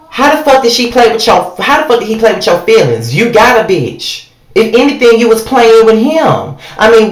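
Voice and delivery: exasperated, heated telling-off; heated rant. Acted. Ranting at Erica about Rich, heated and exasperated. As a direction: chew her out like she can hear you.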